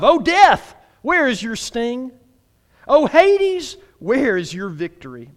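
loud high call, easing on each question; taunting scripture reading, questions held back; scriptural smack talk. Acted. Preacher reads verse fifty-five to the church, restrained smack talk. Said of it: "That's some scriptural smack talk".

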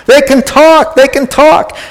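high-pitched, overjoyed cheering; excited parent. Acted. Parent celebrating a child's first words, excited. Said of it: "you're all excited".

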